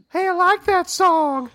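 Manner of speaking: high, eerie stranger's call; lightly voiced creepy stranger. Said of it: "I hear a voice".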